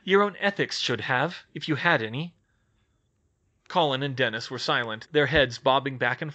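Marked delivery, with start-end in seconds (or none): 0.0-2.4 put-on crisp voice of a young witch, wary; young witch, brisk. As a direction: Hermione taking charge of a tense meeting. Hermione jab.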